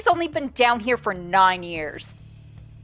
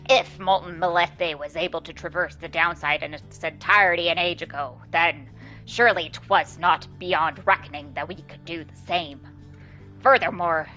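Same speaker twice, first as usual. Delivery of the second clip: Bertrude voice; 2 semitones lower than usual. Acted. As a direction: intone it like an ancient seer. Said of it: "doing her voice sucks".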